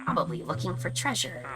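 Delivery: pirate voice. Pretend. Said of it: "I hope you like my pirate voice".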